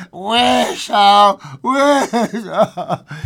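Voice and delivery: high, loud, pleading command; strong cry. A narrator's reading. Wife pressing faltering husband to wish, loud cry. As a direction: demand it, drawn out into a wail. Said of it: "she cried in a strong voice".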